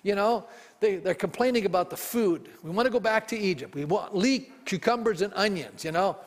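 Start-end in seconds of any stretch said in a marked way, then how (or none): 2.6-5.8 whining Israelites. Retold or imitated. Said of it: "whining and complaining".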